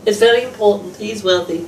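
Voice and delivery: a hint of a smug wife stating wealth; mocking the mother.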